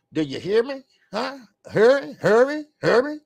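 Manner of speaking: hammed-up North Carolina accent, repeating insistently. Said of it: "Let me do my North Carolina accent".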